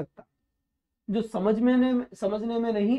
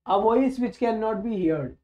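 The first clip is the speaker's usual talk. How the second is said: each word spelled out very slowly; slow dictation; much slower than usual. Shown as a demonstration. Teacher dictating a definition to students, very slow and deliberate. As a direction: read it slowly so students can write it down.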